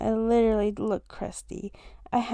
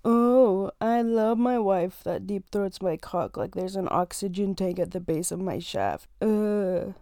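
a hint of a dumb guy voice; mock boyfriend voice; 2 semitones lower than usual. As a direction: imitate his expected dirty reply. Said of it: "respond with something like".

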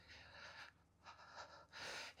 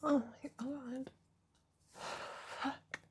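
aroused moan; 5 semitones higher, much slower than usual. Real, not acted. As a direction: let the pleasure spill out. Aroused moan, louder and slower.

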